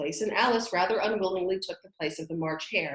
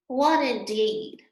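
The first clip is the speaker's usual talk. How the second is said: indignant; 5 semitones higher, 6 dB louder, much slower than usual. A narrator's reading. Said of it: "said the Dormouse indignantly".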